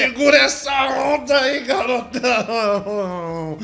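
high, loud call with the last word drawn out; hyped yell. Real, not acted. Radio host hyping up his sidekick, yelling high. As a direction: holler it like a showman, stretching the end.

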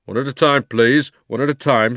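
loud, measured official voice; officious policeman. A narrator's reading. Policeman restraining the complaining cabby, loud and official. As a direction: hold the crowd back with authority.

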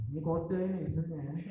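said through a laugh; chuckling while hinting. Real, not acted. Joking about being sleepy.

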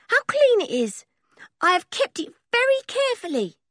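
high, eager and proud; a small boy showing off his treasure; proud gypsy boy. A narrator's reading. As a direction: Sniffer shows George his clean hanky, high and proud. Sniffer's voice.

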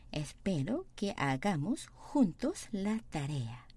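very slow, even Spanish reading; slow model reading. Shown as a demonstration. Teacher repeating slowly for students, deliberate. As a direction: drag each word out for the class. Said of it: "teacher models sentence slowly".

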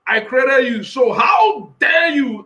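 a stern God demanding; voicing God. Preacher voicing God, rebuking the doubters. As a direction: challenge them as God would. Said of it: "That's what God is asking somebody".

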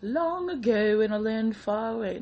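storybook narrator voice; fairy tale opening. Pretend. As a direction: begin it like a bedtime tale. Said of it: "No, no, no, I'm kidding".

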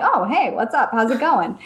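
badly faked British greeting; casual hello in a hammy British accent; terrible British accent. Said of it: "That was a terrible British accent".

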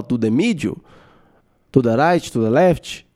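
put-on English with strong Brazilian accent; Joel Santana. Coach giving directions in English, strong Brazilian accent. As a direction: imitate heavily Brazilian-accented English, vowels added to endings. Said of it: "o sotaque é muito forte".

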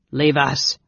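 firm, terse order; commanding. Acted. Mage repeating his dismissal, commanding. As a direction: command with restrained force. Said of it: "Raistlin commanded".

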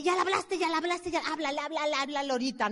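mock nagging wife; nagging spouse. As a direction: pester your partner to call now. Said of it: "la esposa o el marido te dice".

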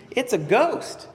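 high-pitched mock terror; imitated fearful cry. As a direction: act out crying out in fright. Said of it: "they cried out in fear".

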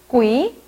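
꾸이 repeated with a tense k; northern Vietnamese reading. Shown as a demonstration. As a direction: say 꾸이 starting on a hard k. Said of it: "이거 어떻게 읽을까요".

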